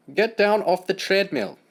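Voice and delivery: German doctor's command; German accent. Acted. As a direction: order him off in a stern German accent. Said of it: "His German accent".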